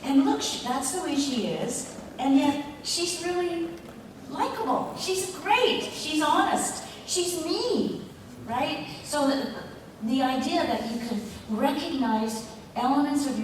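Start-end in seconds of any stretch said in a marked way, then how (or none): 0.0-8.9 higher voiced fan recognizing herself; a light fan voice; lightly raised fan gushing; imitating a fan. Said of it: "people would say".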